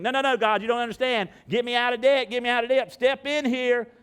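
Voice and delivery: loud, high, insistent begging; hammed-up frantic prayer; mock desperate pleading. Acts out pleading with God about debt.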